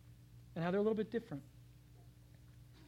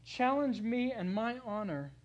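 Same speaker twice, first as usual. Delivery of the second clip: taunting; 3 semitones higher, 5 dB louder than usual. Acted. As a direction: needle the enemies, then let it drop. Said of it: "he's taunting them".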